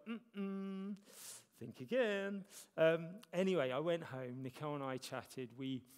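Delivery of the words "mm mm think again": higher, louder teasing refusal; voice of God. Retold or imitated. God gently refusing the pastor, higher and amused. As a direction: wag a finger, amused but firm. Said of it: "And he's like".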